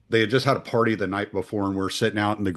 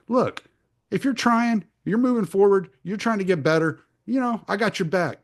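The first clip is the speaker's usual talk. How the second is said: mom's advice; 10 semitones higher than usual. Retold or imitated.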